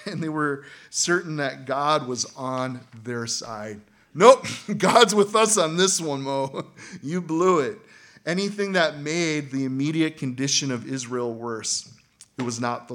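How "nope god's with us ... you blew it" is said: mocking taunt. Israelites taunting Moses.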